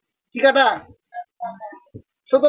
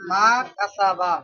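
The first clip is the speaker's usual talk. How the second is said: slow, softer, stretched-out syllables; slow dictation; 2 semitones lower, 5 dB quieter, slower than usual. Shown as a demonstration. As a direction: dictate softly, dragging each syllable. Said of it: "আমি তো আস্তে আস্তে বলতাছি".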